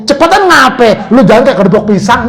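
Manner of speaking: mock-irritated husband scolding his wife; nagging husband. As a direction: act out an impatient husband's grumble. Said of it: "Diomelin bininya".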